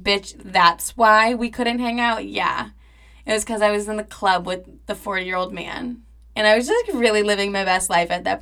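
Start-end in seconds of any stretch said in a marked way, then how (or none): 0.0-2.3 louder and slow, mock-offended; mock-offended rebound. Imagined rebound hearing he was ditched, mock-offended. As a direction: drag out the disbelief teasingly. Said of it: "he's gonna be like".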